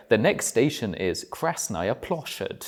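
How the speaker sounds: slow, measured imitation of an English voiceover; measured mock station announcement in English accent; English metro announcer. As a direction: lightly mimic an English announcer reading a Russian station name. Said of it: "clearly an English person ... doing their voiceover".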